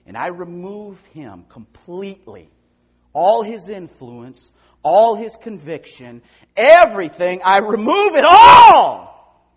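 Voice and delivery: slow build to a high shout. Real, not acted. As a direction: preach it slow, then shout. Preaching build to a climax.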